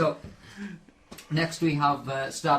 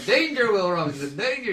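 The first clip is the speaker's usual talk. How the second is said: high, loud imitation of a robot toy; toy robot alarm; 7 semitones higher, 6 dB louder than usual. Toy robot going off in a bag, loud alarm. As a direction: imitate the toy blaring its warning. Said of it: "it starts going off, going".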